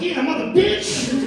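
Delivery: high, drawn-out copycat yell; mock battle cry. Passenger joining the Uber driver's beating, mock yell. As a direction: join in with a comic high shout.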